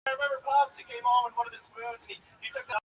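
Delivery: put-on cackly wheezy old timer; old prospector voice. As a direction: rasp it like a grizzled prospector. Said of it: "my impression of, uh, an old prospector".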